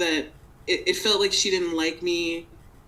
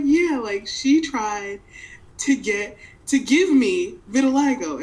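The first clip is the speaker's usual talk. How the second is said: laughing disbelief; 4 semitones higher, 5 dB louder than usual. Retold or imitated. Telling sister mom tried it.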